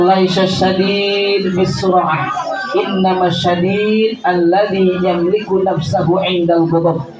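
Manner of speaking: slow, measured recitation of the Arabic; Arabic hadith recitation. Acted. Preacher quoting the Prophet to the congregation, slow solemn recitation. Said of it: "Kata Rasulullah".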